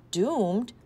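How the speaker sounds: mother echoing her son, surprised. A narrator's reading. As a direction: toss the word back in disbelief.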